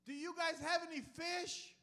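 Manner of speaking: loud slow call across the water. Acted. Jesus calls across the water to the fishermen, loud and slow. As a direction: shout it out to the boat from the shore.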